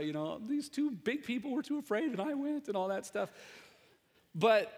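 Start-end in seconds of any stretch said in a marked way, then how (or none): 0.5-2.7 put-on little girl bragging. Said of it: "Naomi had to go tell Melissa".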